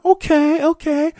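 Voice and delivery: high, giddy okays; mock excited okay. Newcomer giddy over the offer, high and giddy. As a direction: squeal your okays.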